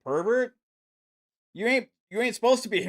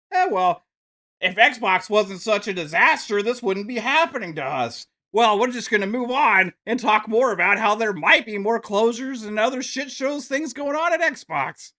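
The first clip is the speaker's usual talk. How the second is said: higher, smug mock corporate voice; mock PlayStation spokesman; 5 semitones higher than usual. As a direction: play the smug exec shifting blame. Mocking PlayStation blaming Xbox.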